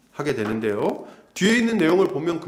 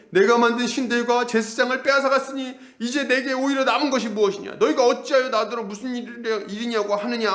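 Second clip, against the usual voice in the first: bewildered; 7 semitones higher than usual. Retold or imitated. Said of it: "미가가 황당해하면서".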